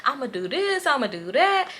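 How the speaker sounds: high-pitched mock threats; ranting girlfriend. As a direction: imitate an angry girlfriend listing threats. Voicing angry girlfriend's threats.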